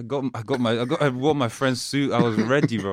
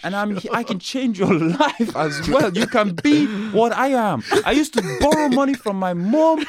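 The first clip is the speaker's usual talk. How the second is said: put-on Arab accent; 6 semitones higher than usual. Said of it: "That's not an Arab accent".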